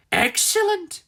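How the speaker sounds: high pleased excellent; gloating. A narrator's reading. Missus Tweedy smiling at the trapped chickens, high and gloating. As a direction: savour it like a villain. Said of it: "Missus Tweedy smiled".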